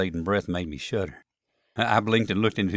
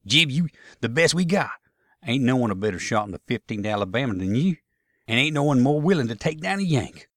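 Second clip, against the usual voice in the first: insistent Southern soldier; 5 semitones higher, 4 dB louder than usual. Acted. Tom urging his best shot to fire, insistent. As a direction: urge your best marksman on, higher and louder.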